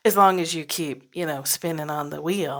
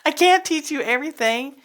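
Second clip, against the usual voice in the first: mock dismissive; 10 semitones higher, 5 dB louder than usual. Beings' dismissive reply.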